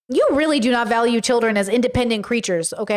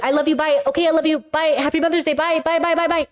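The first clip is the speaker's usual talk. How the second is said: rehearsed sign-off; 3 semitones higher than usual. Shown as a demonstration. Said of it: "I practiced that so good this week".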